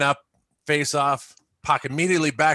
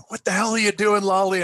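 high-pitched mock outrage; retold angry demand; 10 semitones higher than usual. Imitating Saint Jacques grabbing the shooter, high mock outrage. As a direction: act out an alarmed telling-off, pitch jumping up.

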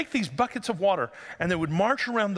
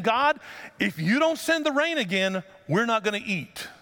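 raised, higher-pitched plea; pleading to God; 4 semitones higher than usual. Retold or imitated. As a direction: cry out to God on the people's behalf. Preacher voices priests pleading with God.

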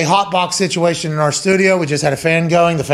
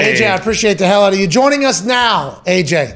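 announcer introduction; 3 semitones higher than usual. Acted. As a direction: introduce the guests like a ring announcer. Announces guests in ring-announcer style.

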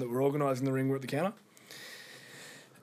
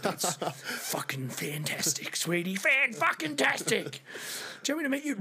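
sarcastic drawl; 7 semitones higher, slower than usual. Retold or imitated. Sarcastic reply on phone.

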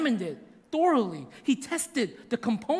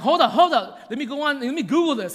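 louder, higher, breathless hold up with a laugh; retold freak-out; 4 semitones higher, 7 dB louder than usual. Appraiser stunned by the jewelry, excited and louder. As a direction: play the appraiser losing his cool over the jewel. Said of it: "he's freaking out".

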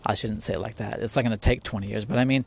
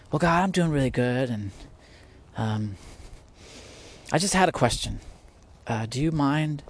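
mock chirpy front, slightly raised; fake polite prayer; 2 semitones higher than usual. A person praying to God, lightly mocking a fake-fine tone. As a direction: put on a cheerful act for God. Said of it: "trying to put on a front".

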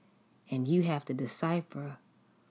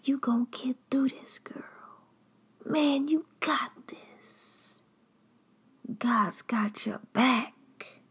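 much higher whispered mock cheerleading; fake encouraging friend; 9 semitones higher than usual. Betrayer texting the victim pep talk, high whispered mock encouragement. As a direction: coo fake encouragement like a two-faced friend. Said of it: "sending you motivational text messages".

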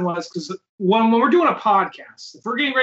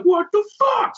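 mock disbelief; 13 semitones higher than usual. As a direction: blurt it as the call crashes. Recording crashes, retold reaction.

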